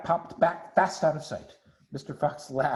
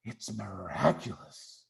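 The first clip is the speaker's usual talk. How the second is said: soft whisper; 5 semitones lower, 7 dB quieter than usual. Acted. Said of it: "he whispered".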